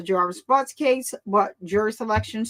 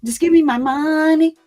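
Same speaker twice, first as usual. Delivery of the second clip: MONEY sung loud and playful, "me" punched; hammed-up party mom shouting "Just give me my money"; mock dance line; 3 semitones higher, 6 dB louder than usual. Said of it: "y'all should have seen me all in the TikTok videos".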